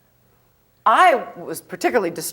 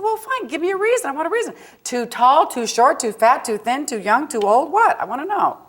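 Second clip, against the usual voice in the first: retold demand; 7 semitones higher, 4 dB louder than usual. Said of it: "I said".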